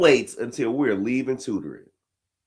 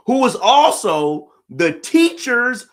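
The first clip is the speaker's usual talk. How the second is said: laughing through the punchline, up high; can't hold back the laugh; 11 semitones higher, 5 dB louder, slower than usual. Real, not acted. Telling the crowd the teacher's kid detail, laughing. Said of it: "punchline with a laugh".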